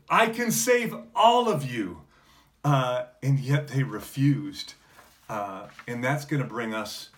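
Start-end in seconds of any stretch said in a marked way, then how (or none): 0.1-2.0 high, loud plea, leaning on all; desperate cry. Retold or imitated. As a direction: shout it high and loud, pleading with the crowd. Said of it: "he's crying out".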